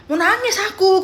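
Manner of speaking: high, loud, almost crying; retold near tears. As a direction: act out being about to cry from joy. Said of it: "aku bilang gitu kan".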